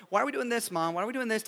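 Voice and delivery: lightly voiced complaining child; whiny toddler. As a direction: mimic a kid nagging mom, mildly whiny. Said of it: "like a toddler".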